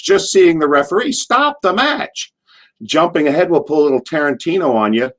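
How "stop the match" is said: very high, drawn-out mock holler; imitated heckle. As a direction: call it out high and slow like a heckler. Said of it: "And I'd say".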